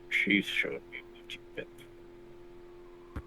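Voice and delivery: hushed, slow and soft; soft plea. Acted. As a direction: quietly urge the mother to stop. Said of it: "I'm trying to talk softly".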